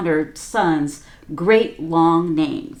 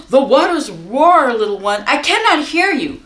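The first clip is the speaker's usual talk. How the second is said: distracted mother; 5 semitones higher, 5 dB louder than usual. Mother can't hear over water.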